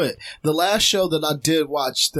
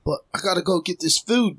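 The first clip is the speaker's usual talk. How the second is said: put-on London kid; 3 semitones higher than usual. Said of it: "this is a little black dude".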